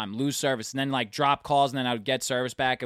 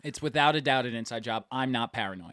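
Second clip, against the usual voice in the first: conspiratorial whisper; 4 semitones lower, 6 dB quieter than usual. Acted. Telling friend phone theory as a secret, whispered.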